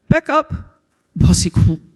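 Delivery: high, loud warning cry; high threatening shout. Acted. Cashier threatens with a bat.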